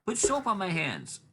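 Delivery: put-on high, slow kid voice; imitated young kid. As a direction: drag it out up high like a child. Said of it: "He goes".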